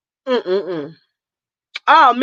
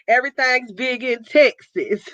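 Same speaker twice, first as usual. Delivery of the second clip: laughing. Real, not acted. Laughing through a Texas line.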